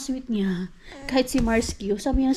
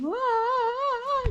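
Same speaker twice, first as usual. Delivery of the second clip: 1 mock baby wail; 13 semitones higher than usual. Mimics crying baby.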